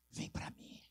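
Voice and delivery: very soft, breath-only invitation; whispered call. Acted. Preacher voicing the Lord's call to come, whispered. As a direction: draw the listener in with a whisper. Voices God's intimate call.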